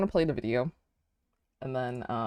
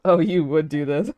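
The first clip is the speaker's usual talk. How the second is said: talking through a mouthful of soup; eating while talking; mouth full; 7 dB louder than usual. Real, not acted. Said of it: "Sorry, I'm eating soup".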